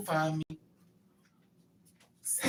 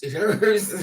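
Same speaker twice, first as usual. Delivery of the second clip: half laughing, half whimpering it hurts; comic pained wail; laughing cry; 3 semitones higher, 6 dB louder than usual. Retold or imitated. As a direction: laugh through mock pain. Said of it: "I was like".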